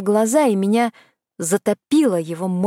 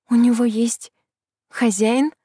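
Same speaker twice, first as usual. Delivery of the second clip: голос скрипнул; 4 semitones higher than usual. Acted. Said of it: "Мой голос даже скрипнул".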